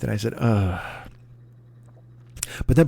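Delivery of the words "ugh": crestfallen groan. Retold or imitated. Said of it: "I was crestfallen".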